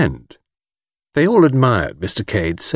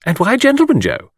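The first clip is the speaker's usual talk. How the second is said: put-on coquettish young woman; 11 semitones higher than usual.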